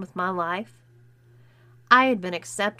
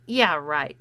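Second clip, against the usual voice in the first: smirking; 5 semitones lower, 5 dB louder than usual. Acted. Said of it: "she smirked".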